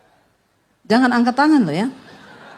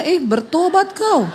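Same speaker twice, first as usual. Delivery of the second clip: slow, laughing mock scolding; laughing tease; 5 semitones higher than usual. Wife laughingly tells husband to repent. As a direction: tease him through a laugh.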